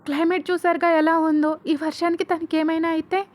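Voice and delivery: angry shout. A narrator's reading. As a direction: yell at the police in frustration. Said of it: "అని మను అరుస్తాడు".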